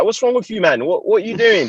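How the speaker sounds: high-pitched mock bewilderment; baffled teammate. Teammates questioning the runner at practice, mock baffled voice. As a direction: imitate teammates puzzled by the act. Teammates react to his sudden accent.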